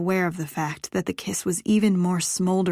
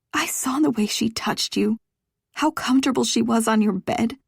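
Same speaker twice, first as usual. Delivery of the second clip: louder, higher jealous charge; hurt accusation; 4 semitones higher, 4 dB louder than usual. Acted. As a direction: press the accusation hard. She accuses him of intimacy.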